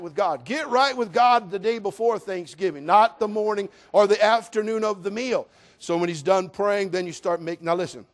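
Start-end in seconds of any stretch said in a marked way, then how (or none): none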